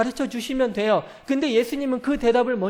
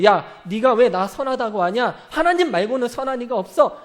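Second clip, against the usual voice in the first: louder, blunt scolding; louder scolding retort; mock rebuke; 4 dB louder than usual. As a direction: snap back at the rich man. Preacher voicing Jesus's rebuke.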